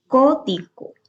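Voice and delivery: "Código" with CO high and drawn out; teacher's high, syllable-by-syllable "CÓ-di-go"; stress on CO. Shown as a demonstration. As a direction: hit the start of "Código": CÓ-di-go. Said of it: "La co que tiene el acento".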